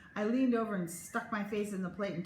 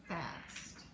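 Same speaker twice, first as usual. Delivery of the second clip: hushed whisper; 4 semitones lower, 10 dB quieter than usual. A narrator's reading. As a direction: drop to a whisper. Whispered end of chapter.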